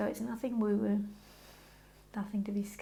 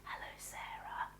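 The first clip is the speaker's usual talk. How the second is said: soft whispered hello; whispered hello to Sarah; 11 dB quieter than usual. Shown as a demonstration. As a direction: breathe the greeting, no voice. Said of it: "pretend to whisper to me".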